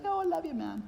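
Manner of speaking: hammed-up sentimental gushing; mushy love. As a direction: ham up a soppy "I love you". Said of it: "It's not mushy love".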